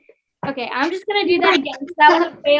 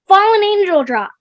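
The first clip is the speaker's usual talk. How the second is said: announcer reveal; 4 semitones higher, 5 dB louder than usual. Acted. Announcing the wheel result.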